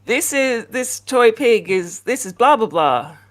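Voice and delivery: lightly mocked condescending sing-song; patronizing mock greeting. Man greets Rachel with a toy pig, mock patronizing. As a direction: imitate him talking down to a grown woman. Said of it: "addressing a fully grown woman like this".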